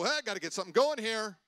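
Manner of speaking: high, loud, quickened call; rousing shout. Acted. Preacher to listeners nodding out, shouting to rouse them.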